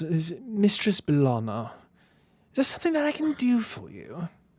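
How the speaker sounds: high, loud, swooping character voice. Asked to do her voice, the game narrator answers in character: Mistress Bellana character voice. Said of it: "Can you do her voice?".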